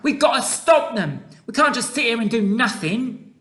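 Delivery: put-on high, urgent little girl's voice; desperate girlish plea; urgent cry. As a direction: insist something must be done. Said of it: "Sophie cried out".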